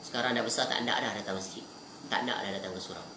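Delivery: low, soft, subdued quote of a grieving father; understated sadness, trailing softly downward; retold tearful confession. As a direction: quietly voice a parent's sorrow, without sobbing. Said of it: "Nangis. Kenapa nangis?".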